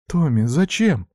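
words squeezed through tears; strained. A narrator's reading. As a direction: sister pleads in a strangled voice. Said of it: "сдавленно говорила девчонка".

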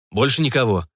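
quick, hasty reassurance; hastily blurted. Acted. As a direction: rush the answer out. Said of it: "спешно выпалил Жак".

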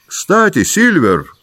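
the doctor shouting for Silver; calling out. A narrator's reading. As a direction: call across to the cook. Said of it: "крикнул он".

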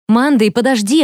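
calling her name after her. A narrator's reading. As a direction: call after a friend running away. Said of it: "окликнула я".

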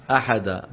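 أحدا ending in a long aa with no n; pause form. Shown as a demonstration. Teacher showing the pause on the word. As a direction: stop on أحدا as ahadaa. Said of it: "شو يقف عليها؟".

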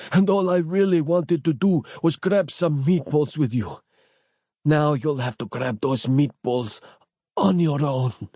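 high strained weak voice; dying man voice. A narrator's reading. Capello dying voice continues.

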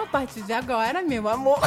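voz sensual mais grave e baixa. Acted. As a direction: fale grave e macio, sedutor. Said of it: "mas que sexy". (voz sensual e aveludada)

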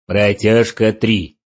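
slow loud gnome announcer. Acted. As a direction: drag out the gnome's countdown. Gnome countdown over loudspeaker.

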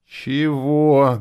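high, loud threatening snap; a tall sorcerer threatening; menacing question. Acted. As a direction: challenge him with menace. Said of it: "грозно спросил".

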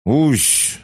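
high, loud creature squeak; indignant squeak. A narrator's reading. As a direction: squeak in protest like a small creature. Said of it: "возмущённо пискнула кукла". (возмущённый писк)

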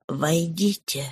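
faint, soft weak voice. Acted. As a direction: call out weakly, soft. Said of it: "проговорил он слабым голосом".

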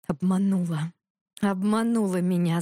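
mildly hissed accusation; restrained angry hiss. A narrator's reading. Ivan accuses Gneva of deceit, hissing mildly. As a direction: press the words out in contained anger. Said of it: "зашипел Иван".

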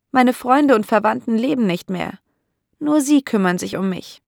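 a hint of a lonely elderly lady; old landlady. (leicht angedeutete alte, einsame Dame, etwas höher)

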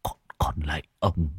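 weak pleading climbing to a long high wail; thều thào van xin. A narrator's reading. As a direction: start faint, beg slowly, build to a drawn-out cry. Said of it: "thều thào". (thều thào van lạy, rồi kêu dài thảm thiết)

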